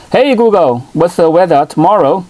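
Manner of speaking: ordinary talk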